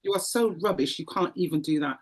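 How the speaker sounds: a mild mocking devil, sneering and jeering; taunting devil voice. The devil taunting her, a touch of sneering scorn. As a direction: jeer at her like the devil, pressing harder. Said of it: "the devil began to say to me".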